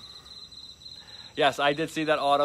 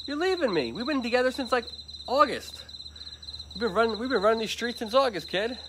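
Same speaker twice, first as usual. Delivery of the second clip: mock sad to dog; 8 semitones higher, 3 dB quieter than usual. Mock lament to departing dog.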